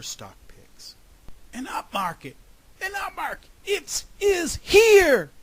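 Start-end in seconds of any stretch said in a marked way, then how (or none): 1.5-5.3 loud shouting. A narrator's reading. Groundhog into the sleeping investor's ear, loud shouting. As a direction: keep climbing until you blast it out. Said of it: "the groundhog shouted loudly".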